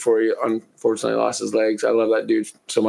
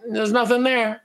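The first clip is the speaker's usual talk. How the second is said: quoting a buddy; 11 semitones higher than usual. Retold or imitated. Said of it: "He was like".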